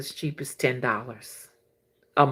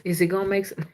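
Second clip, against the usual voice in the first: calming voice; 5 dB quieter than usual. Retold or imitated. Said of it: "just tell you".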